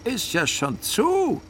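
loud, high, drawn-out bellow; yelled retort. A narrator's reading. Driver answering the policeman, yelling back. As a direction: yell back, stretching the last word. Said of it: "brüllte der Herr Portschinger".

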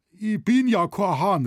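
high, loud protest; crying out. A narrator's reading. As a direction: call out in indignant denial. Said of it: "rief er jetzt".

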